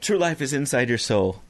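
low, soft cologne commercial read; sultry perfume ad. Retold or imitated. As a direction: breathe it like a Calvin Klein ad. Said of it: "The new fragrance from Calvin Klein".

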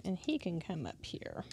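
whispered to herself; soft whisper, concentrating. Real, not acted. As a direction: hush it while working. Whispers while placing pieces.

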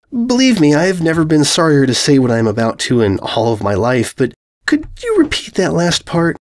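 politely stunned; asking the invader to repeat himself, sarcastic; sarcastic disbelief. Acted. Purple mare asks him to repeat.

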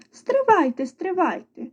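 high, checking call; halting them. A narrator's reading. Rooster stopping mice at the table, high halting call. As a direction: hold them back before they start.

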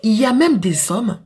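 normal talking voice

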